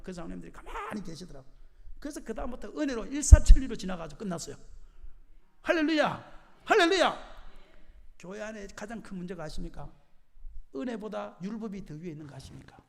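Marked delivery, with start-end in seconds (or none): 5.6-7.3 loud, high hallelujah with falling end; congregational call. Real, not acted. Preacher calls hallelujah to congregation.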